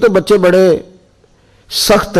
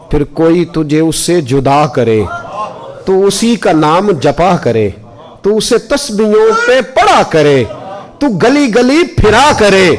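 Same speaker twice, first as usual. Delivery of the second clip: recited poem; 2 semitones higher than usual. Retold or imitated. Mother's verse curse on her son, chanted slowly and rising. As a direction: intone the curse slowly, building up. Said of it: "और मैंने कहा".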